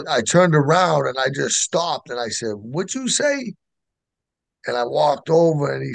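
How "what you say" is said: slow, much higher-pitched disbelief; stunned question. Retold or imitated. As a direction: draw it out as if stopped in your tracks. Stops, stunned by sponsor's name.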